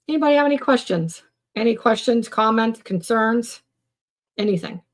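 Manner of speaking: high, fast, bright-eyed host question; cheerful host asking the live audience for questions; upbeat call to viewers. Real, not acted. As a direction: toss it out eagerly to the chat. Host calling out to live chat.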